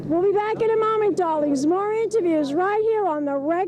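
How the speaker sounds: breathy gushing showbiz host; gushing red carpet chatter. Acted. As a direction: gush over the guest like a glam host. Signs off show in character.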